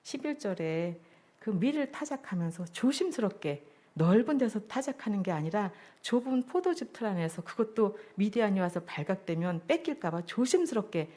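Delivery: ordinary talk, nothing marked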